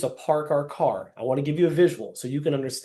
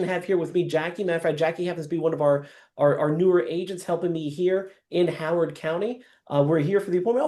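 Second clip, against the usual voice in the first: upbeat agent introducing himself at the door; cheerful doorstep greeting; 2 semitones higher than usual. Acted. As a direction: greet the homeowner like an old friend. Acted doorstep greeting to homeowner.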